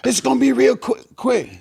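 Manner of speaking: high, rushed promise; lightly voiced flustered magician; flustered reassurance. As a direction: magician fumbling, promising it'll be quick. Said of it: "He like".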